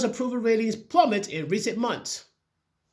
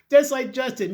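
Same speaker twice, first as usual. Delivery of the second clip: just like Justin said through a laugh, louder; mocking laugh; 4 semitones higher, 4 dB louder than usual. Real, not acted.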